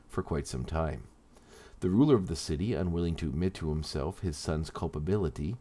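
measured, deliberate origin-story narration. Acted. Host tells subscribers a villain's origin, in measured story narration. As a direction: read it out as a scripted character history.

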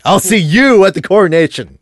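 lightly mocking the villain line; mocking quote. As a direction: repeat it as a mild mock. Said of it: "who says that, really?".

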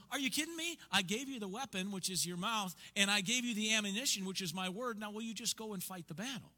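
incredulous, high and pushy; God scolding his people, are you kidding me; God exasperated. Pretend. God answers complaining people, exasperated and urging.

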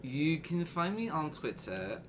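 put-on failed Australian accent, comes out British; Australian accent, slow. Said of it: "Uh, I can't do it".

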